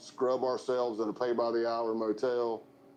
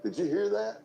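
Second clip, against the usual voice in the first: pitched way up, fake alarm; mock surprise; 9 semitones higher than usual. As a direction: act startled for the passenger. Faking alarm at truck noise.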